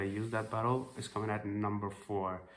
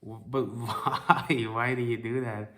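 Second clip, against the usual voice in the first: slow, amused bewildered question; laughing disbelief; 3 dB louder than usual. Retold or imitated. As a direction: ask it through a laugh. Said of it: "He was like".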